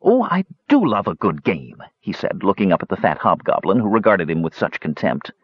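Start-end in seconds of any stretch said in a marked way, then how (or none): 0.0-1.8 a hint of cheerful kender relish; delighted Cronin. Cronin welcomes Toad's hunt, lightly delighted. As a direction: savour the word do, pleased. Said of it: "Cronin smiled broadly with realization".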